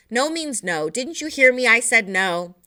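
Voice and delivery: 1 exasperated. Acted. Mother losing patience.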